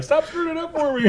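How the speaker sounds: put-on laughing kid quote. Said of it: "The kid's like".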